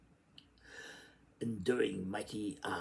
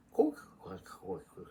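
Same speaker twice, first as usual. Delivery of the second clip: duck quack; 4 dB louder than usual. Acted. Duck sounds in read text.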